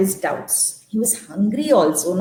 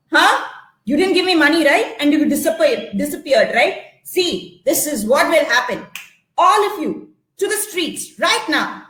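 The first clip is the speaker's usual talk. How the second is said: bully the family out; cruel landlord; 3 semitones higher than usual. Acted. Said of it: "He shouted and screamed".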